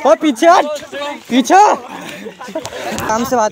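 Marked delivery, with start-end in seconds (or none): 0.1-1.7 raised, higher-pitched warning; shouted warning. Real, not acted. Warning attackers off in a scuffle, raised high shout. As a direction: shout them back.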